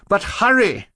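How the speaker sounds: high loud urge; urgent cry. A narrator's reading. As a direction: press him to hurry. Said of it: "Klaus cried".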